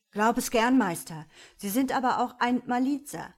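lightly voiced meek sprite; humble will-o'-wisp. A narrator's reading. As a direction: plead politely with the master. Will-o'-wisp flatters the devil.

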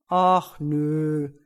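loud, drawn-out bear refusal; reluctant bear. A narrator's reading. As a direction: turn it down as a big bear. Bear declines the party.

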